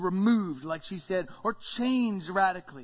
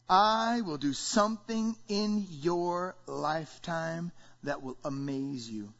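God speaking; 3 semitones lower, slower than usual. Acted. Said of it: "Here's what God says".

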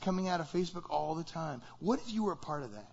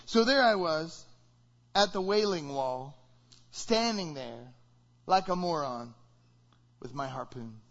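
deadpan joke. Shown as a demonstration. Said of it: "Here's another one".

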